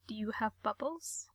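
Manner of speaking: hushed question; whispering. Acted. Mikey's odd question, whispered.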